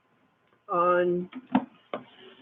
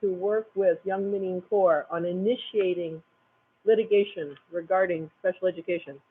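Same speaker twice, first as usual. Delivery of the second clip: talking with food in mouth; mouth full. Real, not acted. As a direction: speak through a mouthful. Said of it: "You keep catching me with my mouth full".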